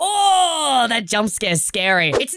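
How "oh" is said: sudden loud startled exclamation. Real, not acted. Jumping at the game's scare, a real startled shout. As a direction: jump at the scare and blurt it out.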